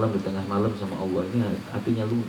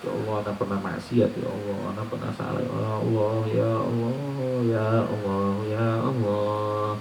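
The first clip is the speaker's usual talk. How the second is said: tearful pleading prayer. Shown as a demonstration.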